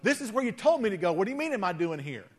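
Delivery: quick, sarcastic comeback; smart aleck. Retold or imitated. Elijah talking back to God, fast and sarcastic. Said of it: "really smart aleck".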